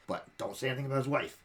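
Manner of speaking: hinting villager aside; shopkeeper NPC. Retold or imitated. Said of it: "and he'll be like".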